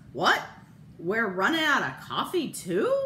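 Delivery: husband barking in disbelief; mild mock bark. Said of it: "Bert barks".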